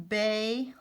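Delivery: "bay" held out with a long A; long A syllable. Shown as a demonstration. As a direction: sound out "bay" as an open syllable. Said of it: "long A".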